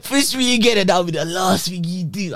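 high, giggly mock threat; laughing retelling. Real, not acted. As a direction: repeat the threat while cracking up.

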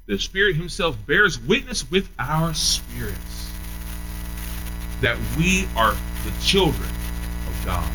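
slow, weighty reading of scripture. Acted. Preacher reading Romans to the congregation, slow and weighty. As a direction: lay each phrase down slowly.

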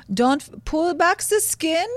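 mock German accent. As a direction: imitate mom with a badly faked German accent. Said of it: "in her a-, German accent".

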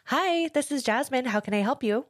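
bright, sweet customer service voice; princess voice. Shown as a demonstration. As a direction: put on the phone princess voice. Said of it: "your comfortable voice and then".

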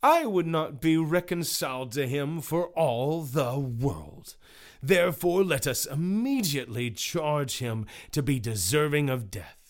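mildly voiced unforgiving juror; implacable exclaiming juror. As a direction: exclaim a verdict, falling at the end. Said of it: "Mister Implacable exclaimed".

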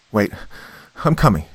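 yell. A narrator's reading. Girl yelling to the woman at the door. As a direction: call out to reassure her. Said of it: "I yelled".

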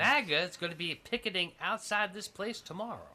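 put-on doubtful Southern accent; attempted Southern accent. Pretend job applicant threatening the employer, attempted Southern accent. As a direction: have a shaky go at a Southern accent. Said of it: "Tim, was that your Southern accent?".

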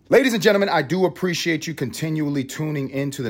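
hammed-up emcee call; announcer. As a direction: announce it like a showman. Announcer opening to outro.

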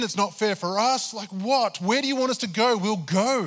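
high, loud exasperated complaint; frustrated rant at God. Retold or imitated. Pastor retelling his rant at God, exasperated and loud. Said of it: "I wasn't saying it with the best attitude".

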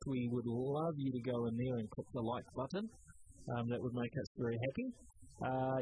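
upbeat host sign-off read; podcast outro. Acted. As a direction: wrap up the show like a radio host.

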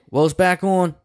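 high, light voice for the resident. Retold or imitated. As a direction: play the tenant casually. Resident voiced in retold story.

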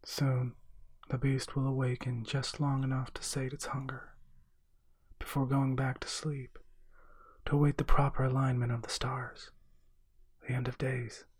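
by rote. A narrator's reading. Witch answering what happens now, recited by rote. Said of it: "She said it almost by rote".

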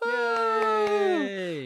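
high-pitched, thin little yay; mock cheer. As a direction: give a tiny squeaky cheer without raising volume. Cheers the announced winner.

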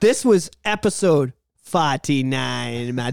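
slow, drawn-out bad Jamaican accent; hammed-up Jamaican accent, slowly. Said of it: "my horrible Jamaican accent".

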